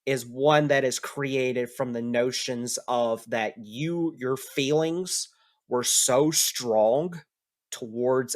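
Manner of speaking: measured, lightly acted pronouncement; solemn Kurama speech. Kurama tells the player of a path to godhood, solemn. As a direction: lay out a destiny with deliberate weight.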